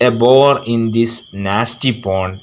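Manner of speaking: slow, drawn-out verse, lifting on the last line; poem recitation. A narrator's reading.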